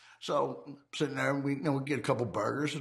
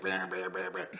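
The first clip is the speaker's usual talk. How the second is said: knocking sounds; 5 semitones lower, 3 dB quieter than usual. Retold or imitated. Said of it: "I'm knocking on this".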